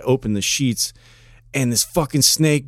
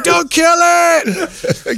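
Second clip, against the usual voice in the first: pleading; 3 dB louder, much slower than usual. Retold or imitated. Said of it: "He's like".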